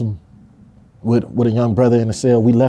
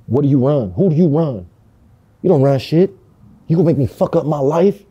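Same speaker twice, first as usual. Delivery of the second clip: retold yell; 3 semitones higher than usual. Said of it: "I thought I was whispering, but I was yelling".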